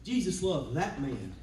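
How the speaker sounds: rising, swelling sermon voice; preaching. Acted. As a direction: preach it with building fervour.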